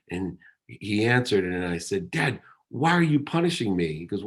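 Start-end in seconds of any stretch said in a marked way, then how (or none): 2.1-3.9 higher, hurt accusation at his dad; mild indignant outburst, higher; mock angry. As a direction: retell the furious phone call with a raised, pained pitch. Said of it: "I got so mad".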